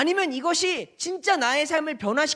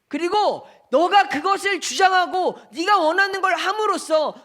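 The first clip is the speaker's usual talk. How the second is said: pressing questions; 3 semitones higher than usual. Acted. Pastor presses Stott's three questions.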